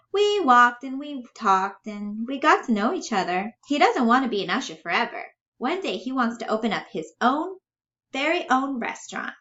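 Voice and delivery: a dreamer in a high voice; childlike, hopeful Bella. Acted. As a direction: play her high and earnest.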